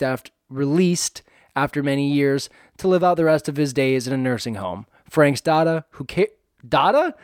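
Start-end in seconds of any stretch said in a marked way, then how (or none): 5.1-7.1 accidental Joe Pesci accent on "daughter"; "daughter" with the final r dropped, Pesci-style. Real, not acted. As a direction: slip into a Pesci-style New York "daughter". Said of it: "in the Pesci accent".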